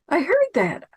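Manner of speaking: high-pitched, astonished aside; amazed aside. Real, not acted. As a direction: marvel at it, pitch jumping up high. Amazed aside about voice in head.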